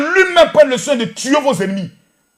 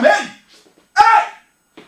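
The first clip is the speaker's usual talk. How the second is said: calling out; 9 semitones higher, 5 dB louder than usual. Real, not acted. Appel à la foule.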